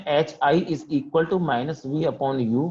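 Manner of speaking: each word of the formula spoken very slowly to the class; slow dictation. Shown as a demonstration. Teacher dictating a formula to the class, very slow. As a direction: spell the formula out slowly so students can write.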